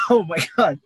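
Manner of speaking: coughing and sputtering after choking on water; choking on a drink. Real, not acted. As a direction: choke on the water, then gasp it out. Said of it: "just choked on my water".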